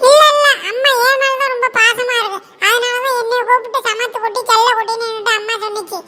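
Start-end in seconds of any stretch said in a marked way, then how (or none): 0.1-2.4 protesting shout. Acted. Sisters arguing.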